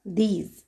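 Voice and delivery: "these" starting with a voiced द. Shown as a demonstration. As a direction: model "these" for learners with द. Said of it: "इन सब में से द का sound".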